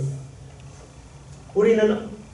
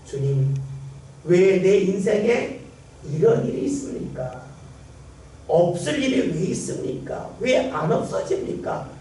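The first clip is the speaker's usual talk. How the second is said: complaining prayer; 3 semitones higher than usual. Retold or imitated. Believer grumbling to God about troubles, mock complaint. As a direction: whine at God, half-acted. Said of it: "원망과 불평만 나옵니다".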